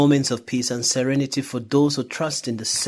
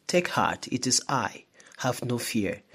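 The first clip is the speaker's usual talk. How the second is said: softer, lower quoted words of comfort; calm reassurance; 3 semitones lower, 6 dB quieter than usual. Retold or imitated. Jesus to the frightened apostles in the boat, softly reassuring. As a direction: settle their fear gently and quietly.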